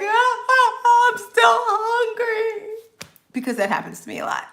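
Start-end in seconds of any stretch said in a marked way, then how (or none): 0.0-2.7 high, slow whiny complaint; drawn-out hungry whine; still hungry whine. Retold or imitated. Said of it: "you're like".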